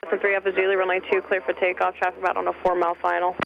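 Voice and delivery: tinny radio voice in headset; over a pilot headset. Real, not acted. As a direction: ATC call heard through headset. Tower call over headset.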